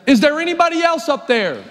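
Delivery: punchline call up the cliff; calling up, laughing. Acted. Man on the cliff calling up again with a laugh.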